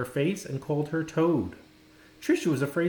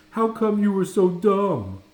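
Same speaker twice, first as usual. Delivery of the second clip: higher, louder schoolyard jeer; mocking taunt; 6 semitones higher, 7 dB louder than usual. A narrator's reading. Boy mocking the girl in front of other kids, loud jeering. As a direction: sneer it at her for the crowd. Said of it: "a boy called out to her".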